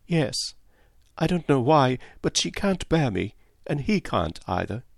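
a hint of a lively young girl; young Cynthia. Cynthia voiced by narrator.

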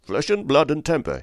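high-pitched, heated retort; narrated angry outburst; strong passion. A narrator's reading. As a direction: throw it back in a passion. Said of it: "as if he was in a strong passion".

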